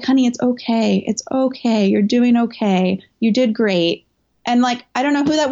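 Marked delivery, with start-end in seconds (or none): 0.0-4.1 reassuring stranger. Retold or imitated. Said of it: "this woman took my hand".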